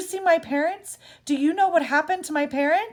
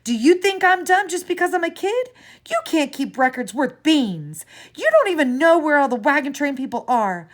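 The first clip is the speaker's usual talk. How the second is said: furious, louder and higher outburst; screaming; 4 semitones higher, 7 dB louder than usual. A narrator's reading. Grieving child screams at the clerk, furious and loud. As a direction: let it all explode at once. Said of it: "I screamed".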